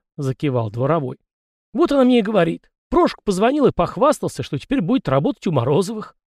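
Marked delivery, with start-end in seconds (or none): 1.7-6.1 high chatty peasant voice, pitched well up; raised voice of an old peasant gossip; folksy yard spirit. A narrator's reading. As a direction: play the fussy little yard spirit, talking nonstop. Tikhon retells his wife.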